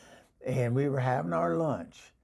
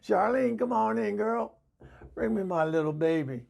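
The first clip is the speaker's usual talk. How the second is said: higher-pitched call to a neighbor; 6 semitones higher than usual. Real, not acted. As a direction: call her in from outside. Calls to the neighbor outside.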